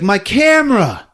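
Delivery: high-pitched frantic cry; mock distressed high voice; frantic woman. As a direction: imitate a woman urgently exclaiming. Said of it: "And she's like".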